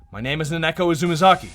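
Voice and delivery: realizing. Acted. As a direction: say the name as it comes back to you.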